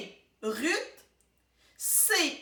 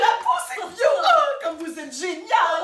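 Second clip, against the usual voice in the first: bubbly, delighted cheer; effusive praise; 3 semitones higher, 6 dB louder than usual. Real, not acted. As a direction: gush over your co-host's success. Congratulating co-host on correct guess.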